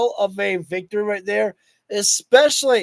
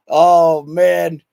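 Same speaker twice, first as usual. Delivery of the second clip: excited; 4 semitones lower, 7 dB louder, much slower than usual. Real, not acted. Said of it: "I think I just got really happy right there".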